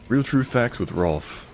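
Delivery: slow, high show-host voice; announcer voice. Acted. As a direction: announce it like a TV segment title. Mock show segment title.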